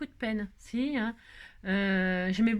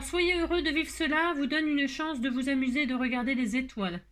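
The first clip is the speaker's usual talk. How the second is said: quote read; 3 semitones higher than usual. Shown as a demonstration. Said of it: "c'est Henri Van Dyck, hein, qui dit ça".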